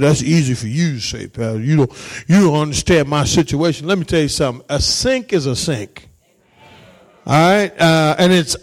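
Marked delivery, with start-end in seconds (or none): 0.0-3.9 low, softened mock complaint; lightly voiced objector. Congregant objecting to the pastor's advice, low mild complaint. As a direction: lightly imitate a doubting church member, pitched low. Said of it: "you said".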